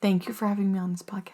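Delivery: soft breathy whisper. Acted. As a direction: hush the thank-you. Whispered thank-yous at sign-off.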